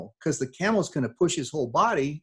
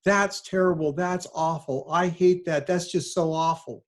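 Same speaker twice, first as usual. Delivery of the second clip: higher, hammed-up gasp of disgust; mock horrified relativist; 6 semitones higher than usual. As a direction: play the shocked friend who dodges the question. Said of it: "this is how it always sounds".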